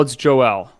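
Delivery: "Joel" with the second syllable sounded out; French-style Joel. Shown as a demonstration. Host answering which way to say it, "Joel" as jo-EL. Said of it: "It's the French print".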